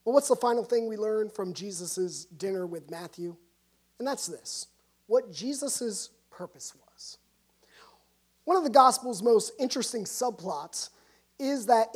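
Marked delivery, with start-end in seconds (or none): 4.0-7.2 slow, soft whisper of the key question; hushed whisper. Real, not acted. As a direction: lean in and whisper it slowly. Hushed line before the point.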